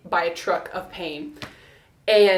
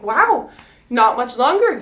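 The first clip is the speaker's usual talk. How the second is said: higher, louder delighted wow; impressed midwife; 4 semitones higher, 8 dB louder than usual. Retold or imitated. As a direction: cheer her on, impressed. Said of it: "And she's like".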